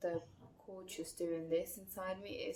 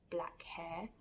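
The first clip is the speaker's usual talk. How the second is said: hushed whisper. Real, not acted. Hushed description.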